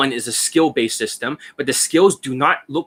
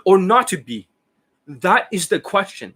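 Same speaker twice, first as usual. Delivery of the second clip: overacting; 6 semitones higher than usual. Shown as a demonstration. Coach showing students bad acting, overacted. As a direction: declaim it with exaggerated theatrical weight, pitched high. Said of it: "the overact".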